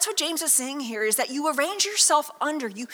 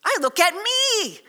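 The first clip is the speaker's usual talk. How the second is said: I said slow and high; stress on I; 7 semitones higher, 4 dB louder than usual. Acted. Preacher to congregation, owning vanity, stressing I. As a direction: lean hard on the I.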